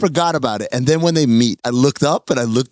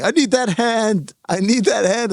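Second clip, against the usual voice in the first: imitating Brian Cox; 5 semitones higher than usual. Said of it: "Side by side with Brian Cox saying".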